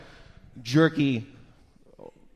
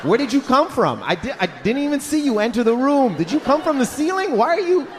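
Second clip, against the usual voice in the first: startled; 5 semitones higher than usual. Retold or imitated. Startled customer questioning vendor.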